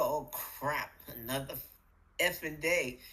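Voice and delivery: low, sour, fed-up morning grumble; grumpy morning groan. Shown as a demonstration. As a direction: sigh it out like a grouch. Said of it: "You can tell what you're putting in your day by how it sounded".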